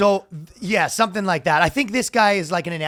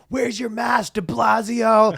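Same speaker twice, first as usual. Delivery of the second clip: mock heckle; 5 semitones higher, slower than usual. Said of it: "People go".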